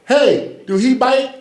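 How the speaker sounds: high, loud cartoon voice for the dog; high mock dog voice. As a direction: squeak it out like a talking dog. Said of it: "the dog said out".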